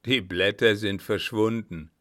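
loud, mocking retort; scornful. Captain taunting the baroness, scornful. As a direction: answer with a touch of scorn. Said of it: "antwortete er höhnisch".

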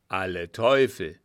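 loud, low-pitched curse; startled exclamation. A narrator's reading. Officer hearing the general is coming, loud exclamation. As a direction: call out the oath in surprise. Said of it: "rief der vorige Sprecher".

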